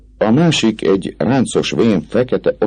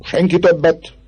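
auctioneer's call. A narrator's reading. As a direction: call the last bid like an auctioneer. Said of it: "az árverés vezetők hanglejtését". (árverezői kikiáltás)

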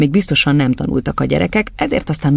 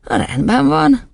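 put-on high child's voice; compliant schoolboy; 12 semitones higher, much slower than usual. Boy wobbling on one leg, high agreement.

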